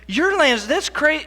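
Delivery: put-on girl shrugging off the news; breezy child. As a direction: toss it off like a kid who's already bored.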